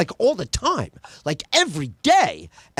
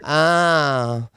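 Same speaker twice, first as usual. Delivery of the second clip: prudish audience member; 4 semitones lower, slower than usual. Retold or imitated. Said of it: "everybody was enjoying it in the back".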